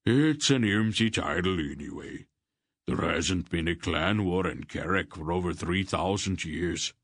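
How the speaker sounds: a lightly voiced gruff clan chief, offhand; Barak's voice. Barak tells Geryon about his clan title, lightly voiced. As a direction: lightly voice the big warrior, shrugging off titles.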